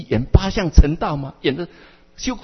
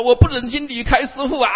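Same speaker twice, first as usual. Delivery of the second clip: much higher, stretched whining plea, stress on 我; hammed-up tearful begging; wailing plea; 8 semitones higher than usual. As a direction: wail it like a clinging child. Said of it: "我很会耍赖哦".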